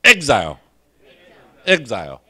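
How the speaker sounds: exile drawn out syllable by syllable, ek-zile; teacher modelling exile slowly; slow demo word. Shown as a demonstration. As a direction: spell out exile very slowly for the class. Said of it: "来，大家做伙读一摆".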